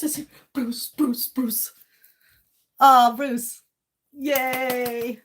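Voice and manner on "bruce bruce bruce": whisper. Real, not acted. Whispering his name.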